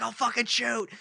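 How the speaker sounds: high-pitched mock yell; retold cop threat. Imitating cop with taser out, high mock threat. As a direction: threaten without full volume. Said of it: "he had his taser out".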